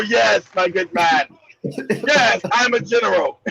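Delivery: a mock-refined gentleman, unhurried; upper crust accent. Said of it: "His English is so upper crust".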